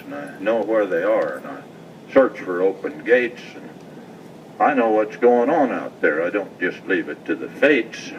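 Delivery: rhythmic cowboy poem reading; poem recitation. Acted.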